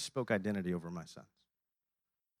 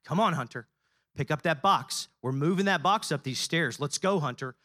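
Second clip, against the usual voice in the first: starts normal, builds to a much higher, louder shout; rising coaching shout; 11 semitones higher, 7 dB louder than usual. Retold or imitated. A father cheers his four-year-old up the stairs, building to a much higher, louder shout. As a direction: cheer him up every stair, louder each step.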